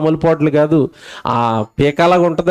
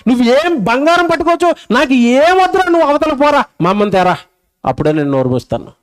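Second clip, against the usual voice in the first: put-on defiant baby; 6 semitones higher than usual. Baby refusing everything.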